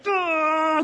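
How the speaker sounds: strained, drawn-out heaving noise; mock grunt of heaving something heavy; effort grunt. Preacher imitating men moving the stone, straining grunt.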